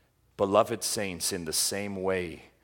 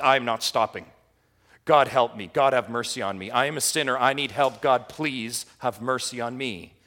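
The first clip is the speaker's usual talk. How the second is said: desperate plea; 2 semitones higher, 6 dB louder than usual. Retold or imitated. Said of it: "No, this is".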